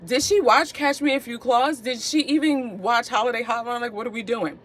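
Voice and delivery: high, puzzled viewer voice; mock indignant viewer, voice up; imitating viewer. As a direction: play a confused fan calling you out. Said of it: "you're like".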